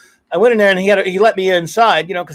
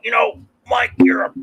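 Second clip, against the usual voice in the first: half-whispered, lightly lowered imitation of a friend; imitating Carl; 4 semitones higher than usual. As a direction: slip into Carl's hushed way of talking. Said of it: "He talked like this".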